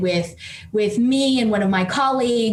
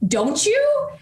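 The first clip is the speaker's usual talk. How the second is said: higher, with a laugh breaking through; laughing question; 11 semitones higher than usual. Retold or imitated. Elon teasing her back, laughing as he asks. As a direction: ask it while chuckling.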